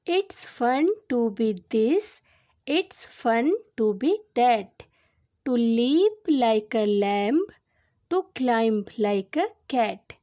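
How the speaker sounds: very slow, word-by-word poem recitation; poem reading. Acted. Teacher reads a poem to class two children, slow recitation. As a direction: read the verse out slowly for young learners.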